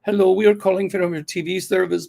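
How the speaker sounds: imitating a scam caller's broken English; mock broken-English phone pitch. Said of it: "they're very broken".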